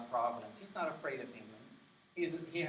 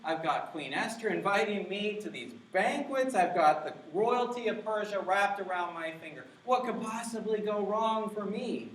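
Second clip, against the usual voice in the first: smug Haman; 6 semitones higher, 3 dB louder than usual. Acted. Preacher voicing Haman's boast.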